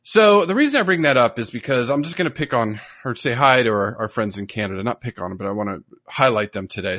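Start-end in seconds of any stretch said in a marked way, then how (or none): none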